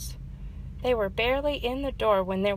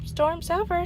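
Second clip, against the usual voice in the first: cheerful announcement; 9 semitones higher, 4 dB louder than usual. A narrator's reading. Fox announces storm ended.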